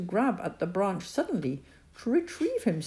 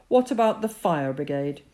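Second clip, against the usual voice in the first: shouting up; 5 dB louder than usual. Acted. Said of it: "his mother shouted up".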